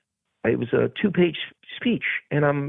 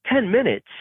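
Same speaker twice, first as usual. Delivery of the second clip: stunned echo of the director's answer; shocked disbelief; 11 semitones higher than usual. Retold or imitated. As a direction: repeat Ten minutes? high in alarmed disbelief. Shocked echo of short time.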